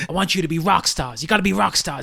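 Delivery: tough-guy New York hype man; New York accent. Retold or imitated. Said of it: "That's like the New York accent".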